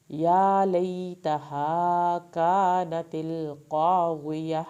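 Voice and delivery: slow melodic tajweed recitation; measured Quranic chant, vowels stretched. Shown as a demonstration. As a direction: recite it slowly, drawing out every long vowel. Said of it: "یہ کاف پتلا پڑا جائے گا".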